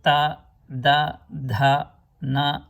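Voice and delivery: "ta, da, dha, na" each with an open "aa"; southern vowels. Shown as a demonstration. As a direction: say "ta, da, dha, na" separately, southern Indian style. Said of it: "in southern Indian languages".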